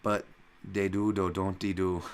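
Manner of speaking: put-on Liverpool accent; Scouse accent. Host obliging a viewer who asked, amateur Scouse accent. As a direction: try a Scouse lilt, slowing on the tag. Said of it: "Here for Dan Scouse accent".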